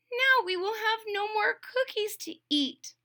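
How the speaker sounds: mildly mournful toad; sad. Acted. Toad lamenting lost cookies to Frog, mildly sad. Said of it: "said Toad sadly".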